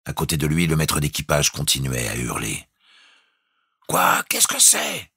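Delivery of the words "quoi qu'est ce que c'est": desperate cry. A narrator's reading. Jukes cries desperately to the bosun. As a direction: yell it, straining to hear. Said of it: "cria désespérément Jukes".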